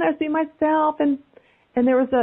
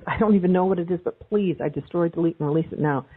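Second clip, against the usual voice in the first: clearing statement. Shown as a demonstration. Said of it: "you say".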